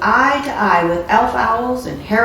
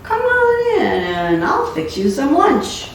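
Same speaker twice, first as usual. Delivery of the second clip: higher, slow, hospitable offer; friendly invitation; 6 semitones higher, slower than usual. Acted. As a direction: coax him inside with a smile. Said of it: "friendly as could be".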